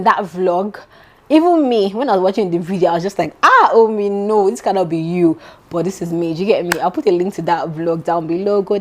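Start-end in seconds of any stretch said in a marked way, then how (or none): 3.4-5.4 playfully amazed at yourself; mild self-directed astonishment; mock disbelief. Reacting to her own vlog.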